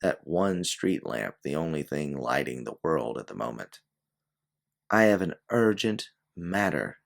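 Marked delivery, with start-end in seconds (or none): 4.9-7.0 blurted. Acted. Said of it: "she blurts out again".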